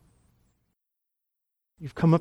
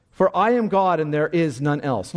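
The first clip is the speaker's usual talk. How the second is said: preaching at full force; 5 semitones higher than usual. Acted. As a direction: thunder the text out to the crowd. Preacher reading text at full force.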